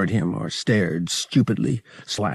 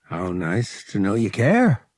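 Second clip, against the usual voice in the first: cocky. Acted. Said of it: "with a touch of his old cockiness".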